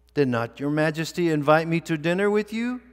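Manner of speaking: astonished guest. Acted. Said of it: "said the astonished guest".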